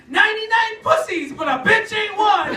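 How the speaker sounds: punchy mock TV title read; mock show title. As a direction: announce the title like a TV promo.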